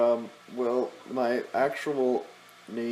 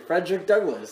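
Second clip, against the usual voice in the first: higher, louder grand announcement; mock-proud full name; proud reveal; 6 semitones higher, 7 dB louder than usual. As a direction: present the name like a big reveal.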